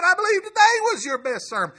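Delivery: high, loud, fast imitation of an overjoyed old man; thrilled praise. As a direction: gush with joy over the sermon. Cothran's praise retold.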